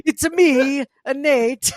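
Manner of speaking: a cartoonish Italian plumber catchphrase; Mario Kart Italian. Impersonating the listener as Mario, hammed-up Italian. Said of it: "from Mario Kart".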